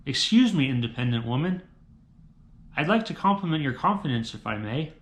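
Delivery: New York construction worker calling out, then dropping off; construction worker catcall. Acted. Builder compliments a passing independent woman, New York catcall. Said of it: "New York City construction worker doing a cat call".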